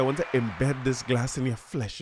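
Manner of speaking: normal talking voice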